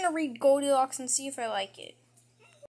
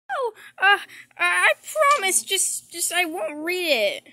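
pleading; 4 semitones higher, 4 dB louder than usual. Acted. Kid pleading not to lose books.

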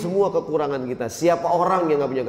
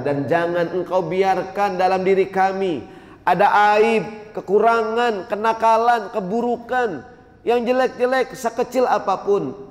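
impassioned prayer plea; 5 semitones higher than usual. Acted.

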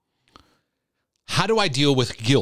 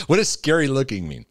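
higher question on the tail of a laugh; amused, laughing; 4 semitones higher than usual. Real, not acted. Host puzzling over the viewer's wording, amused. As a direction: ask it still tickled. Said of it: "I'm, I'm laughing".

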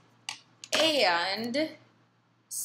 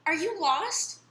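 lady cooing; 8 semitones higher, 4 dB louder than usual. A narrator's reading. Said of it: "said the lady".

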